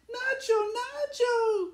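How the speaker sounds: high, loud calls of his name; crying out. Acted. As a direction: call to him as he sinks. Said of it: "cried Lolita".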